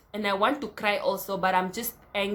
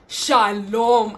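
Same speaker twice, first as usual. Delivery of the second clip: a lightly voiced sweet hello, a touch louder; mock greeting; 8 dB louder than usual. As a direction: greet with a hint of put-on innocence. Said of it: "Dragon Ball Z is like".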